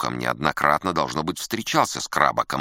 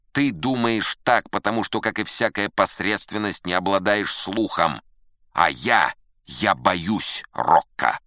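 loud, haughty put-down in a higher pitch; cold disdain; 5 semitones higher, 5 dB louder, slower than usual. A narrator's reading. Musician dismissing his friend as mediocre, cold and haughty. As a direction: pronounce it with cutting superiority. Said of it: "а затем холодно сказал".

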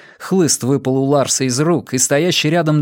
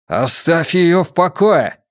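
slow, raised, forceful snarl; angry growl; 5 semitones higher, 4 dB louder, slower than usual. A narrator's reading. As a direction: growl it out as a furious command. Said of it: "прорычал Матиас на фьерданском".

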